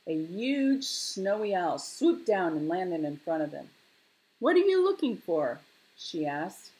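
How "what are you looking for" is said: high, loud owl question; high-pitched storybook owl; owl character. A narrator's reading. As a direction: hoot the question like a curious owl. Snowy owl questions the cubs.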